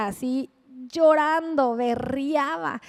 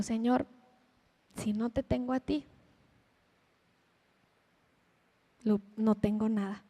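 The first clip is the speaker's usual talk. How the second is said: oración llorosa; 2 semitones lower, 6 dB quieter than usual. Retold or imitated.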